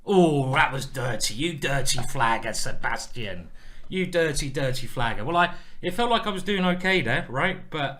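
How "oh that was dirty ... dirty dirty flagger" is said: loud, playful telling-off; loud mock disgust at a dirty trick; mock scolding. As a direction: scold a friend in hammed-up indignation. Jokingly scolds opponent after flagging.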